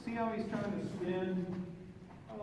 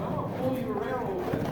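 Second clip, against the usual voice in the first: voicing the horse; 6 semitones higher, 4 dB louder, much faster than usual. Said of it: "He's going".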